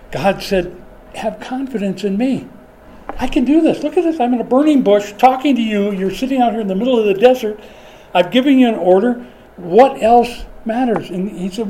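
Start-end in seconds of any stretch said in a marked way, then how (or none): 1.1-11.1 high, loud, insistent voice of God; commanding God. Retold or imitated. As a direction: boom it out as God reassuring Moses. God voiced from burning bush.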